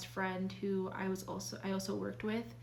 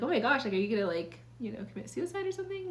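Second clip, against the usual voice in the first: mock alarmed boss; 2 semitones higher, much faster than usual. Imitating the boss on the phone, mock alarmed. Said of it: "frighten someone that cares about you".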